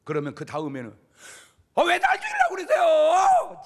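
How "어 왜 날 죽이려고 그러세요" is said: high, loud indignant shout at God; defiant protest. Retold or imitated. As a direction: yell back at God in protest. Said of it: "막 이렇게 대드는 거예요". (하나님께 대드는 높고 큰 항의의 외침)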